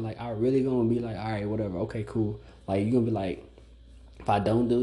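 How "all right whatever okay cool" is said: dismissive shutdown. Retold or imitated. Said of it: "I'ma shut down".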